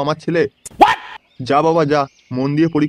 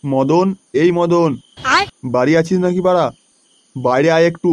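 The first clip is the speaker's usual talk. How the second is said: calling out. Acted. Calling out to neighbour's house.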